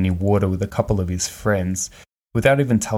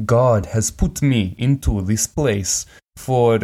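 mock Russian accent; 3 semitones higher, slower than usual. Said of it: "I'm gonna stop doing that particular, um, accent. He's not Russian".

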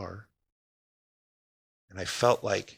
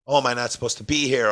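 quick, louder retold apology; apologizing; 6 dB louder, faster than usual. Man at fishing spot to police officer, hurriedly apologizing. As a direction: blurt it out fast, apologizing to the officer. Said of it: "I instantly started apologizing".

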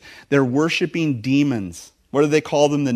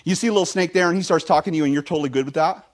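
sarcastic; 3 semitones higher, faster than usual. Retold or imitated. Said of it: "I ask him something a little bit sarcastic".

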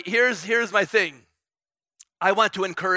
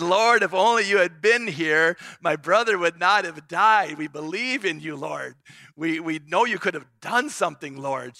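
raised, pleading cry to the Lord; grieving sister's plea, voice raised; pleading Mary; 6 dB louder than usual. Retold or imitated. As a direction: plead with him, a little louder. Mary's plea to Jesus retold.

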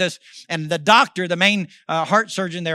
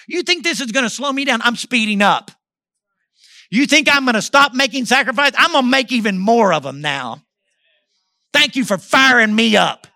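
raised, forceful pitch, talking back to the devil; fired-up defiance; 4 semitones higher, 5 dB louder than usual. Retold or imitated. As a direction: throw the challenge back with rising fire. Retold defiant outburst at the devil.

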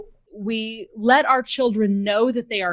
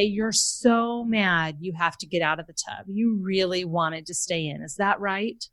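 slower, softer empathic reply; attuned, gentle; 4 dB quieter than usual. Retold or imitated. Mother to upset son, softly validating. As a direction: soothe him by naming his feelings. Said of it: "I say".

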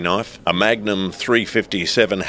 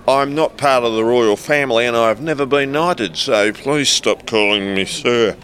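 exasperated; 4 semitones higher than usual. Acted. Exasperated reply to staffer.

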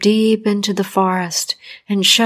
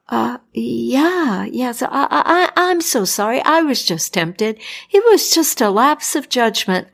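higher, stammering apology; nervous doctor; 3 semitones higher than usual. Acted. Doctor apologizing to angry Death, higher and flustered.

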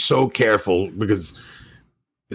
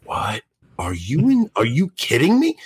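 mock disbelief, rising high at the end; incredulous; 3 semitones higher than usual. Retelling the group's edge-of-seat reaction to a story, incredulous. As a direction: react like you can't believe your ears.

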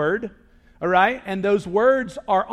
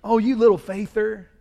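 teasing; 4 dB louder than usual. Retold or imitated. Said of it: "Almost teasing you".

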